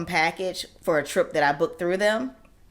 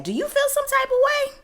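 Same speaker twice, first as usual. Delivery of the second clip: sharp high sassy question; high sassy challenge; sassy retort. Retold or imitated. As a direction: throw it back at him. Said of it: "I said".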